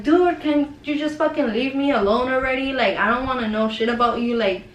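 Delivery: retold angry outburst. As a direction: replay telling someone off, fed up but not shouting. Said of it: "I was so mad".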